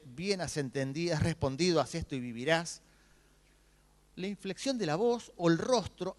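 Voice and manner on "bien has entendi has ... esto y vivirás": softer, tender, each phrase lifting at the end; gentle soft inflection. Shown as a demonstration. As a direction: say it kindly, as Jesus might have. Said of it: "la inflexión de la voz de Jesucristo". (suave y tierno, más bajo, con final ascendente)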